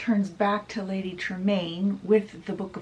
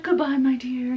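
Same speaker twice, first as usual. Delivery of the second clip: whispered goodbye; 5 semitones higher, 4 dB louder than usual. Acted. The knight bidding his bride-to-be farewell, whispering. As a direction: murmur it like a secret parting.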